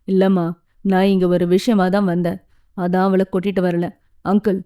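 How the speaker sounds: lightly voiced young man, earnest; a hint of a determined young man. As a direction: explain the plan to the parents. Young man voiced explaining plans.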